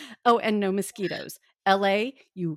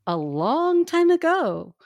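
grave ancient myth telling. Acted. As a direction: intone it like an old legend. Begins the ancient tale.

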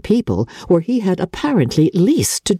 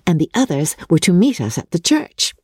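lightly voiced giddy young girl, a touch higher; Lydia chattering; 5 semitones higher than usual. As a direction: rattle on like a silly excited girl. Lydia gossiping about her wedding.

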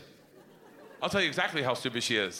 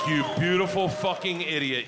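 affectionate shout. Retold or imitated. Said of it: "I'm like".

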